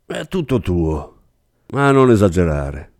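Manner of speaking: slow, level and unmoved; flat tone. Acted. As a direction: hand him over without emotion. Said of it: "in tono piatto". (tono piatto e distaccato)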